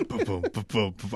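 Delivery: soft mouthed drum hits; imitated drum fill. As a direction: puff out a quiet drum fill. Imitates a song's drum fill.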